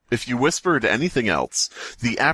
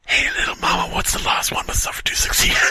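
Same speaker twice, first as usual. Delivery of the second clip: mock flirty line; faster than usual. Friend mocks the ritual question.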